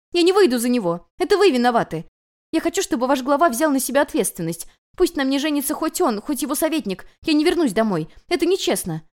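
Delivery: high, loud tearful rant; desperate outburst. A narrator's reading. Runaway bride screams at the people she blames. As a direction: pour out all the outrage at once. Guest insists loudly, refusing return.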